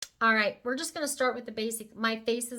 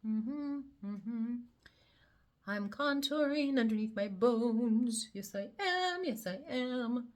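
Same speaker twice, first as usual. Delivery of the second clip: sing-song sass; 3 semitones higher, slower than usual. Acted. Playfully narrating her contouring.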